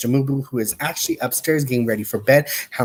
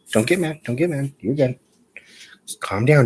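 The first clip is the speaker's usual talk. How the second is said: whispered soothing. Real, not acted. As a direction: whisper to calm the dog. Soothing the dog.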